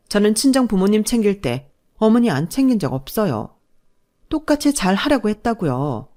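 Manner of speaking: lightly acted aggrieved protest; indignant daughter-in-law. Pregnant daughter-in-law justifying herself to mother-in-law, mildly indignant. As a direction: push back, politely hurt.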